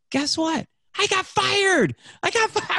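thrilled telling his wife he got fired; excited. Retold or imitated. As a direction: burst out the news with joy. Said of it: "I was so excited that I got fired".

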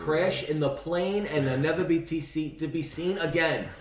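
mildly angry ranting wish of doom; getting upset. Real, not acted. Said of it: "I'm getting upset now".

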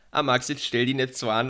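rough attempt at Bavarian dialect; imitated Bavarian dialect. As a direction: mimic a friend's Bavarian voice message. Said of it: "zu deinen Dialektausfällen".

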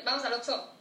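"Oxxo" as OK-so, first O stressed; accent on the O. Shown as a demonstration. Woman explains local habit to cohost, "Oxxo" stressed on the O. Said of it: "ponemos un acento en la O".

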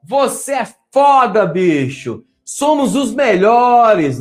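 loud, slow, cheering inner voices of victory; imagined cheering voices. Retold or imitated. Coach acting out the winning team's inner voices, excited cheering. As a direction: cheer yourself on like the crowd after a win. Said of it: "vozes gritando".

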